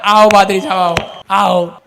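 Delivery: low, very slow, bored greeting; droning lazy welcome. Retold or imitated. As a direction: drag the welcome out lazily. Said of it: "ये कैसे स्वागत करते हैं".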